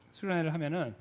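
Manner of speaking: ordinary talk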